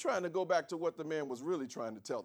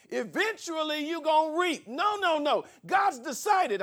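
much higher and louder, driving the point; full-force preaching; 12 semitones higher, 9 dB louder than usual. Acted. Pastor preaching to his congregation, high and loud.

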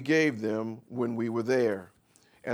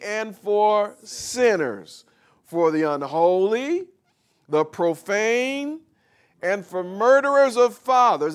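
full-force preaching; 5 semitones higher, 7 dB louder than usual. Acted. Preacher calling out the lawless to the congregation, loud and high. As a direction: hammer each name from the pulpit.

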